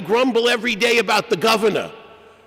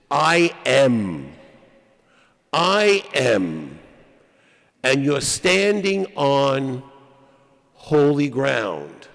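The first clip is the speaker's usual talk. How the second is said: deep, slow and solemn, as God speaking; 6 semitones lower, slower than usual. Retold or imitated. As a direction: speak the divine name low and grave. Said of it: "Says to Moses".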